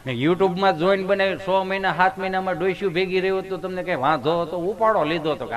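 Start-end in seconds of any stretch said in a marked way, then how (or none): 0.0-1.4 repeats "YouTube-માં જોઈને બનાવી" through a laugh; mock her answer while chuckling; laughing echo. Husband echoes wife, laughing. (હસતાં હસતાં "YouTube-માં જોઈને બનાવી" દોહરાવે)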